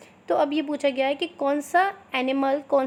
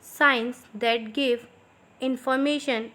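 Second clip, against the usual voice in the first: slow, clear dictation pace for students to write; much slower than usual. Shown as a demonstration. Teacher dictating slowly to her students. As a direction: spell it out slowly so they can copy. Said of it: "थोड़ा मैं slow slow बोलूँगी".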